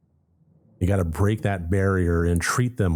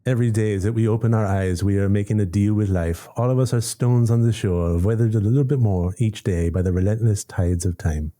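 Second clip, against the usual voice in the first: put-on vague French accent. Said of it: "I don't know what my accent is".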